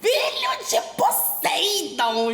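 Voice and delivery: slow, high, booming announcement; grand proclamation. Acted. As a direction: proclaim it like an epic title. Grand proclamation of Percy's heritage.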